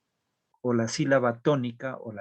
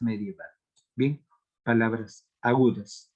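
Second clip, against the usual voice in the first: ordinary talk, nothing marked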